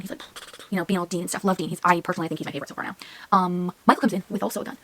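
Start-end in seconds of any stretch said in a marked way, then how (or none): 3.3-4.8 unvoiced whisper, telling the plot; hushed plot reveal. Real, not acted. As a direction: whisper it like a secret.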